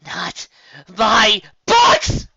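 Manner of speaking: offended to the core; loud outraged rasp; ghastly rasp. Acted. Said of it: "issued a ghastly rasp".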